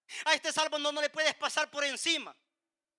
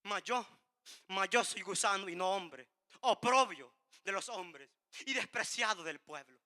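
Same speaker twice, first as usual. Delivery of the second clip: hushed lament; 5 semitones lower, 5 dB quieter than usual. Acted. Jesus's cry from the cross, quoted.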